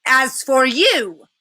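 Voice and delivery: a hint of a cruel queen; menacing witch. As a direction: witch turning on Edmund. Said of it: "said the witch".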